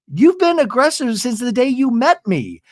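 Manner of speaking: high-pitched, acted-out indignation; retold accusation. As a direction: imitate a friend on the attack.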